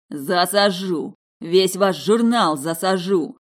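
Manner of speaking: slow, loud, menacing roar; furious threat. Acted. Vadim advancing on Dasha, slow loud threat. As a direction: stretch each threat out.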